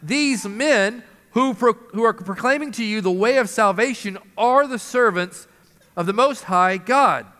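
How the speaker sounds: slow, drawn-out proclamation, pitched a bit up; the slave girl calling after Paul, slow and drawn out; slow proclaiming cry. Retold or imitated. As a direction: call it out slowly like a street herald. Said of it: "she cried out".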